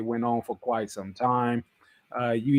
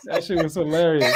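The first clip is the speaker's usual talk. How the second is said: laughing; 2 semitones higher than usual. Real, not acted.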